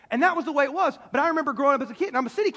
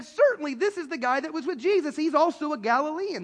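higher-pitched, mildly pressing accusation; insistent; 4 semitones higher than usual. Acted. Bystander identifying Peter, insistent. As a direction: insist on it, pointing him out. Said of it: "still another insisted".

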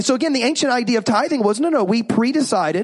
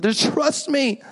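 pleading parent; 2 semitones higher, slower than usual. Retold or imitated. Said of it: "pleaded with".

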